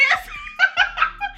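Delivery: high-pitched burst of laughter; real laugh. Real, not acted. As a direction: crack up at the discovery. Laughs at the star sign.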